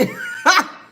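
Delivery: very high, loud burst of laughter; short shriek of a laugh; disbelieving laugh. Real, not acted. Laughing off the threat, high disbelieving laugh.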